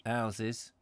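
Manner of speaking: "Houses" with no H, starting on the vowel; dropped H. Shown as a demonstration. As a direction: echo "Houses" as "ouses". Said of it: "drop your H's down there".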